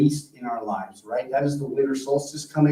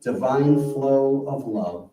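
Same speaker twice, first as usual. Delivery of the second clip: spoken prayer. Real, not acted. Minister concludes the service for the congregation, measured prayer. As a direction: lead them into prayer, phrase by phrase.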